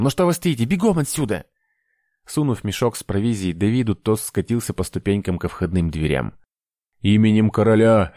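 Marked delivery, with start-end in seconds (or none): 0.0-1.5 high thin shout; old master shrieking at them to run. A narrator's reading. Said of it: "закричал тонким голосом". 7.0-8.1 roaring. A narrator's reading. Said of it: "ревели за ней".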